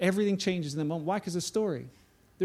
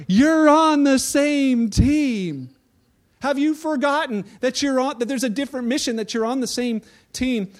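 pleading, drawn-out ref voice, high and loud at first; slow, stunned plea to squabbling players; exasperated referee; 5 semitones higher, 5 dB louder than usual. Retold or imitated. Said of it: "the refs and the other guys are like".

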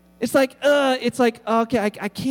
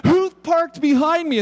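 louder, higher indignant who; mock outrage at the people who parked behind him; retold angry demand; 6 semitones higher, 4 dB louder than usual. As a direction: demand to know who did it. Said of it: "I gave them heck".

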